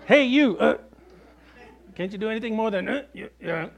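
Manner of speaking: sudden high, loud mock wife jabbing at a mute husband; mock nagging wife. Pastor joking about wives, voicing a nagging wife. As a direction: playfully needle a husband who won't talk.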